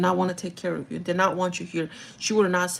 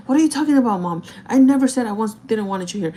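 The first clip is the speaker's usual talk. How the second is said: higher, louder imitated protest; retold arguing; 3 semitones higher, 4 dB louder than usual. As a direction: cut in as an indignant mom, acted. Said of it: "she starts to fight with her".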